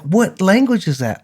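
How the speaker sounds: high-pitched mock bewilderment; baffled passerby. Passerby hears fast Scouse podcast, incredulous. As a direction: imitate an incredulous stranger, pitch jumping up. Passerby cannot place the accent.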